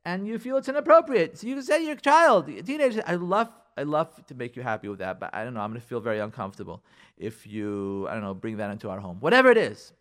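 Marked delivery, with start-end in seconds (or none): 3.1-9.2 soft, low, hesitant parent; gentle reluctance. Shown as a demonstration. Parent easing a refusal to a teenager, gentle. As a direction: let them down gently.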